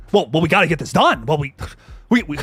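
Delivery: lightly nasal, a little angry character voice; mildly angry and a bit nasal, in halting starts; Jamie. Acted. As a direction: put on an irritable, slightly nasal voice. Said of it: "There's my Jamie".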